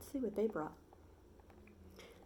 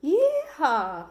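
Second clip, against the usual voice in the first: higher, much louder rodeo holler; cowboy yeehaw; 8 semitones higher, 9 dB louder than usual. Acted. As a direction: let it fly like a hat tossed up. Sam dances celebrating.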